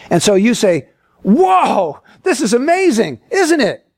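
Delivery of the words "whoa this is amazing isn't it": mildly hammed-up wonder; acted amazement. Sightseer showing Yosemite to a blind man, amazed.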